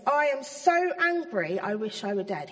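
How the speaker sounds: a touch of grumbly anger, slowed; mild angry Jonah. Retold or imitated. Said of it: "It says".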